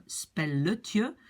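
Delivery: "spelletje" slowly, with "etje" added after the l; diminutive pronunciation demo. Shown as a demonstration. Teacher adds the ending for learners, slow pronunciation demo. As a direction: sound out "spelletje" syllable by syllable. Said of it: "donc ça va être".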